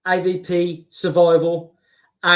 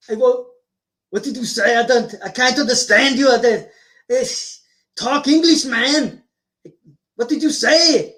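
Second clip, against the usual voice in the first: Arnold impression; 2 semitones higher than usual. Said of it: "with Arnold Schwarzenegger".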